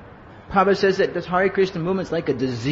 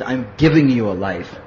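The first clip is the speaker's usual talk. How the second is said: lower-pitched imitation of a Hungarian guru; Shiva Ram Maharaj; 6 semitones lower than usual. Guru correcting his disciple on the phone, deep Hungarian voice. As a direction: put on a deep Hungarian master's voice. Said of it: "he's got this deep Hungarian voice".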